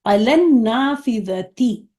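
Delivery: علن نافذتی drawn out very slowly; slow model phrase. Shown as a demonstration. Teacher giving the class a new phrase, slowly. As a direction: lay out each syllable slowly. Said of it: "علل مکتبی".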